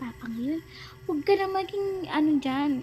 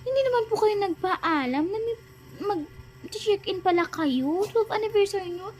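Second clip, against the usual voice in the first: higher-pitched indignant complaint; scolding, upset; 4 semitones higher than usual. Acted. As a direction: tell the parents off, pitch raised. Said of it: "Anak, huwag ka na magalit".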